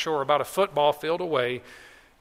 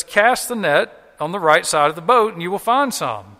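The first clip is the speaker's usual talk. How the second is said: raised voice, mildly acted yell; calling out; 2 semitones higher, 6 dB louder than usual. Stranger directing fishermen from the shore, calling out. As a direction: project the instruction toward the boat. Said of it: "he yells out to him".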